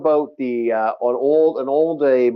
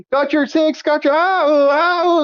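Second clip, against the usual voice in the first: high yelping callout; imitating teammate; 11 semitones higher, 3 dB louder, slower than usual. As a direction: yelp out in pain. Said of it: "I keep hearing".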